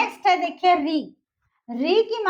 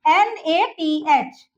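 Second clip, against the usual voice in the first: slow spelling; much slower than usual. Shown as a demonstration. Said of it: "spelling क्या हो जाएगी".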